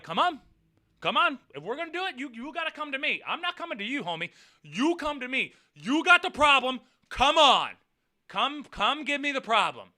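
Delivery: high-pitched, goading come-on; taunting challenge. Retold or imitated. Driver daring the other man to come to him, taunting.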